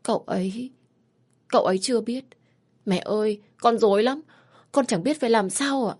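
heartbroken answer. Acted. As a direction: answer through tears, lost. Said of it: "đau lòng trả lời".

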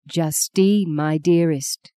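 steady, composed reassurance; calm her without a falter; strong, unfaltering. Acted. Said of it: "said Maggie strongly, not a falter in her voice".

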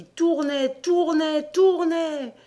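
high, held, sing-out repetition; whirling repetition. A narrator's reading. Narrator describing wheels of fire to listeners, high whirling repetition. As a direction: make the word spin round, pitched high.

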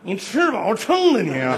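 slow, squeezed out through clenched teeth; through gritted teeth. Retold or imitated. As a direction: force each word out between your teeth. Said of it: "从牙缝儿挤出一句来". (从牙缝里挤出来)

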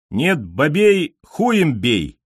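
high, drawn-out startled gobble; frightened gobble. A narrator's reading. Pigeon answers after being shaken, frightened and gobbling. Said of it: "испуганно кулдыкнул Семён".

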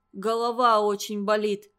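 plain reading voice

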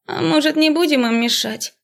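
high, listless suggestion; melancholy drawl. A narrator's reading. Another student suggesting leaving them, listless. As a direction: shrug it off dreamily. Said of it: "меланхоличный голос".

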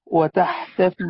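وتحتفي said without doubling; light ya. Shown as a demonstration. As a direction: glide lightly through the end of وتحتفي. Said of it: "بتخفيف الياء والحاء".

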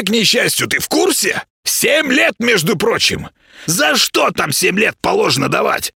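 high-pitched, scolding creature voice; grumpy little house spirit. Acted. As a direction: nag like an indignant tiny housekeeper.

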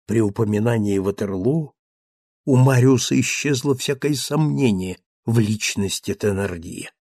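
ordinary delivery

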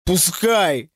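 strained, mildly sobbed exclamation; narrated sob, kept understated; tearful cry. A narrator's reading. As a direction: wail it with a touch of tears. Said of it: "прорыдал Вова".

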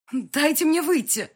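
high, loud, slow desperate cry; trapped mother demanding to get out, loud and high; exclaiming. A narrator's reading. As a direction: cry out to be let out. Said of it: "воскликнула".

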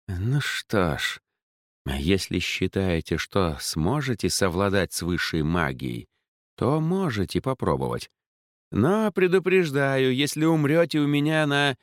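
put-on reluctant, lofty old mage; haughty mage voice. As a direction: warn her with disdain. Mage warns her.

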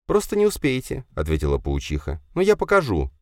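put-on high, small girlish voice; spider girl Leya. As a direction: speak as the little spider. Leya's voice. (паучиха Лея говорит тоненьким голоском)

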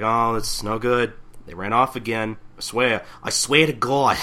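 light Brooklyn Jewish mother grumble; Jewish mother accent. Retold or imitated. Otose complains about runaway tenants, light Brooklyn Jewish mother grumble. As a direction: kvetch like a New York mom. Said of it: "I give her that voice".

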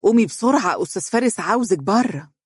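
urging her daughter to get up now; eager. Acted. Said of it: "وقالت لها بلهفة". (بلهفة واستعجال)

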